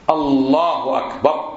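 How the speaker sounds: الله أكبر slowly, short u on the h, clean glottal start to أكبر; correct takbir. Shown as a demonstration. Teacher correcting the takbir, careful and correct. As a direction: separate الله from أكبر, no w between. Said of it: "هي حرف الهاء عليه ضمة".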